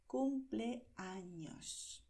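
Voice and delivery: cumpleaños very slow, the ñ like ny. Shown as a demonstration. Teacher stressing the ñ of cumpleaños. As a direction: linger on the ñ in cumpleaños. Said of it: "un sonido de ñ".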